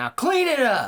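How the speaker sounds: full-on shrill, loud yell. Retelling the drunk stepdad knocking things off the table: imitating someone yelling. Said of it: "he is yelling".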